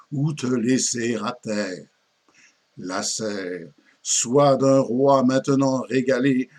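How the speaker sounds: declaimed mock-tragic lament of an old poet; lightly acted poetic declamation; theatrical verse recitation. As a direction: recite it like classical French tragedy, with measured emphasis. Recites the parody poem.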